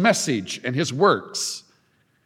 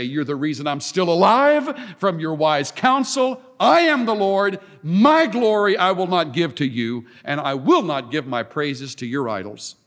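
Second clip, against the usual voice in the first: building preaching intensity; 3 semitones higher, faster than usual. Acted.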